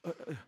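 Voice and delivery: small, soft fake whimper; fake crying. Follower pinched to make him cry, feeble fake sob. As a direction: force out unconvincing little sobs. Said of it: "nggak bisa, itu kelihatan palsu".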